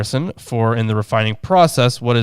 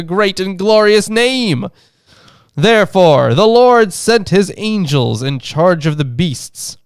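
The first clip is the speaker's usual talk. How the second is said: lightly voiced old lady, rising in pitch; 6 semitones higher than usual. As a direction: recite solemnly as the lady, pitch climbing. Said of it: "can't exactly do the old lady voice".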